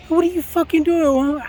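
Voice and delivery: angry shout at the woman ringing his doorbell; angry yell. Retold or imitated. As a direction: bark it at the stranger. Confronting the woman at his door.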